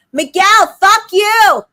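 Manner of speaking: high, loud yelled curse; imitated yell. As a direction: shout it across the dock. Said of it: "She yells towards the dock".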